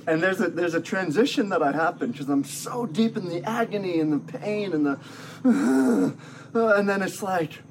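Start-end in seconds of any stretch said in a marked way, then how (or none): 5.2-6.1 acted agonised sigh. Acting out agony and pain.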